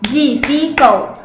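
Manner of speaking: difficult broken into slow syllables; "difficult" drawn out in beats. Shown as a demonstration. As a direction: say "difficult" slowly, one clapped syllable at a time. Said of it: "بتسقفوا وتعرفوا عدد مقاطع".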